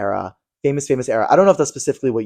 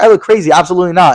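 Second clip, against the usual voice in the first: high, loud retold outrage; mock indignant refusal; 5 semitones higher, 6 dB louder than usual. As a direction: shut it down like an offended star. Retells celebrity's indignant refusal.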